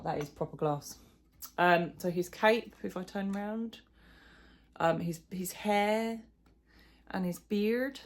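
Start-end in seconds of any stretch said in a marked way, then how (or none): 5.3-8.0 slow, drawn-out and higher; funny voice. Real, not acted. Showing viewers the doll's hair and beard, funny voice. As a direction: stretch it out in a silly, raised voice. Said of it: "said it in a funny voice".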